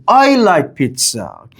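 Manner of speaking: slow, with "I" leaning out as the stressed word; emphasis on subject. Shown as a demonstration. Teacher emphasizing the subject pronoun, stress on "I". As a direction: stress "I" in "I like pizza". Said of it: "I'm putting the emphasis".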